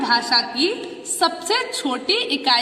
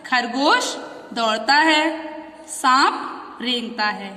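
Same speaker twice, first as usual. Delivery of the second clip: read aloud slowly; slower than usual. Shown as a demonstration. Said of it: "दो sentence लिखे हुए हैं नीचे।".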